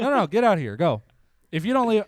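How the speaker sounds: high, loud mock outrage; mock scolding. Host ordering a friend off the show, mock outrage. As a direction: throw them out in pretend anger.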